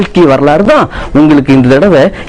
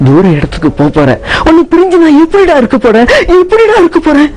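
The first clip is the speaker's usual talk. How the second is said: mother's rising lament, higher at the end; sad mother; 4 semitones higher than usual. Acted. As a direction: grieve losing your son. Mother sad at son's departure. (மகனைப் பிரியும் துயரத்தில் அம்மா)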